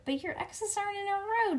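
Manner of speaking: high, quick protest; fast, high-pitched playground objection; objecting. A narrator's reading. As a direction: protest in a high little kid's voice. Grace objects in acted quarrel.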